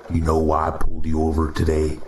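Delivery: a faint Midwestern drawl, casual and knowing. Acted. Cop questions the driver at her window, light Midwestern drawl. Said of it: "he said in a Midwestern drawl".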